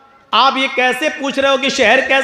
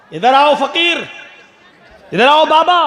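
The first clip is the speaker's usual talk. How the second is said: calling out. Acted. King summons the sweaty fakir, calling out. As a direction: beckon him across the court.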